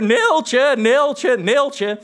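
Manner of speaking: high, loud call that fades off; shouting Neeltje. Retold or imitated. Two friends shouting the scene on bikes at night, loud. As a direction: bellow the name across the empty lot. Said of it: "harder en harder".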